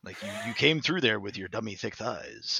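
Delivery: lightly voiced stern commander Zavala; a hint of a solemn commander scolding; deadpan commander voice roasting a teammate. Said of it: "I started doing my Zavala voice".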